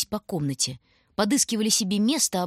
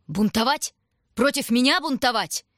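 louder, rising indignation; outraged king; 5 semitones higher, 4 dB louder than usual. A narrator's reading. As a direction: storm about in royal outrage. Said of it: "метался по комнате король".

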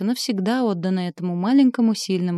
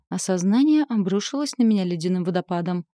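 ordinary delivery, nothing marked

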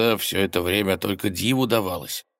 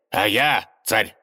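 triumphant reveal; 4 semitones higher, 4 dB louder, slower than usual. Acted. Tsar reveals himself.

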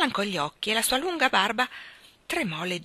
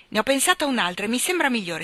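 eager; 5 semitones higher, 4 dB louder, faster than usual. Acted. King eagerly continues.

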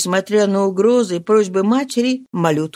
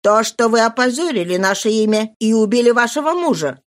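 louder, pitiless accusation; cold accusing aunt; 7 semitones higher, 3 dB louder than usual. Acted. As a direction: strike her with the charge. Sister-in-law accuses Marie.

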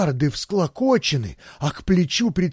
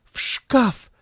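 firm, higher, snapped order; decisive; 8 semitones higher than usual. A narrator's reading. Isabella hides her lover, commands decisively. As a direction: take charge at once. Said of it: "решительно объявила".

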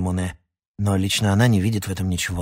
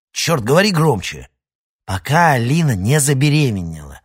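loud call; 4 semitones higher, 6 dB louder than usual. Acted. Shouting down a bad line.

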